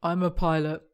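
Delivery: understated, modest delivery; not smug. Acted. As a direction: say it without any boast. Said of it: "He doesn't say it in a smug way".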